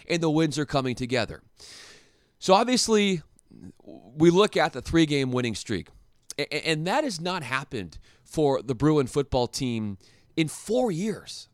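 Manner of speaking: ordinary talk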